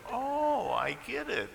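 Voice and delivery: a sudden high "Oh" as it finally clicks; dawning realization. Pretend. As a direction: play the listener who just got the joke. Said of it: "one or two smiles will say".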